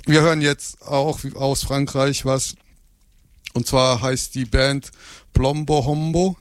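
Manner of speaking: gum in the mouth; chewing gum. Real, not acted. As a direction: chew while you talk. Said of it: "Ich hab einen Kaugummi im Mund".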